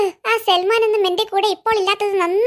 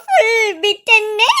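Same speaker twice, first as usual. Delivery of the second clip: a mock cry, slowing down; whimpering; slower than usual. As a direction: whine it out with a sob in it. Embarrassed boy whimpers. (കരച്ചിലോടെ പറയുന്നു)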